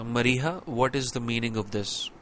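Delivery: even, quiet asking; calm, normal question. Shown as a demonstration. Teacher demos a calm question to a student. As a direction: ask calmly, just wanting to know. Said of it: "someone is talking in a very normal and calm mode".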